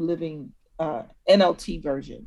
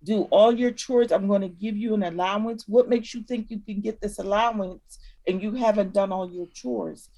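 put-on parent to child; 2 semitones higher than usual. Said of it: "You're talking to your child".

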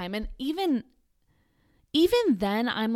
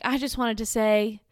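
a hint of a gushing fan, slowing at the end; light impression of an eager listener; mock gushing caller; 2 semitones higher, 4 dB louder, slower than usual. Vlogger imitating Cheryl praising the station, lightly voiced. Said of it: "And she's like".

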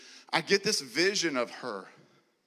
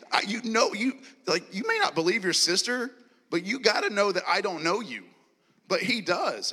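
higher and louder, urgent pleading; fervent appeal; 7 semitones higher, 6 dB louder than usual. Real, not acted. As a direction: press the point home with passion.

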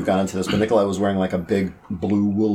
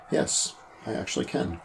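soft unvoiced whisper; 6 semitones higher, 7 dB quieter than usual. Shown as a demonstration. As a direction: breathe it out as a whisper. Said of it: "I can also do it in my head".

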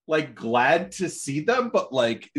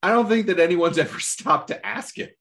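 laughing; 8 semitones higher than usual. Retold or imitated.

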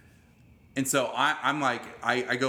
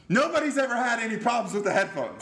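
high, raised-voice mock hillbilly yell; loud retold outburst, voice jumping high; 10 semitones higher, 4 dB louder than usual. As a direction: imitate a yelling hillbilly lady, pitched way up. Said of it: "she starts yelling".

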